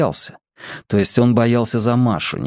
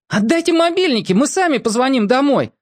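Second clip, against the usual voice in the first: put-on demanding boy; 14 semitones higher than usual. A narrator's reading. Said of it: "потребовал Мак".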